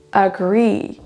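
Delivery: "Agree" with drawn-out, rising GREE; short a, long GREE in "Agree"; second-syllable stress. Shown as a demonstration. Teacher repeats for learners, "Agree" stressed on GREE. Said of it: "C'est la deuxième qui est prononcée plus longue".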